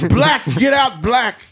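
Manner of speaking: loud, high Middle Eastern shopkeeper; Middle Eastern accent. Retold or imitated. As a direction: shout him out as the shopkeeper. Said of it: "Middle Eastern accent".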